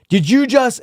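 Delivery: high, loud offended gasp of a question; indignant disbelief, imitated. Customer reacting to her joke accent, offended and high. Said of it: "he was just like".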